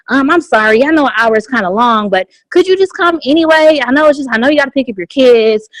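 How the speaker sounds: hesitant, apologetic pleading; reluctant invite full of excuses; regretful invite. Shown as a demonstration. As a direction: apologize your way through it. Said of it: "inviting somebody with regret is saying".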